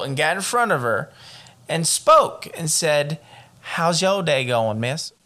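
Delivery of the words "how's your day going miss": badly faked Georgia drawl, slow; slow, clumsy Southern accent. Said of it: "you're so bad at these accents".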